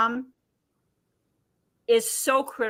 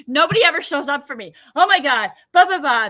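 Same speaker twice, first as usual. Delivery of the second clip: mock victim whine; 3 semitones higher, 5 dB louder than usual. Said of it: "victim, victim".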